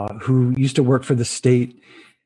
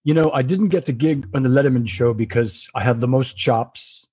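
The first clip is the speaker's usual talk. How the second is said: put-on light South African accent; Anton, South African accent. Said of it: "in that South African accent".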